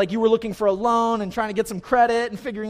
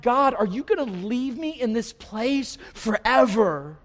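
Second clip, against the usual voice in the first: desperate plea; 4 semitones higher, slower than usual. Acted. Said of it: "You're in this hopeless, desperate situation".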